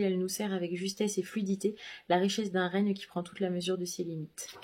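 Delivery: smooth, polished review read; reading a review aloud. Acted. Booktuber reads her published review to viewers, polished read. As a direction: read the blurb like a printed quote.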